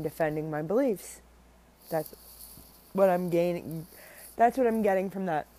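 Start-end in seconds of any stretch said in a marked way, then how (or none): 1.9-5.5 talking through hiccups; hiccupping between words. Real, not acted. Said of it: "I have hiccups".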